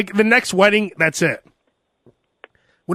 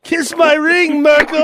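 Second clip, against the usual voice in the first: dark lord; 8 semitones higher, slower than usual. Pretend. Royal demand.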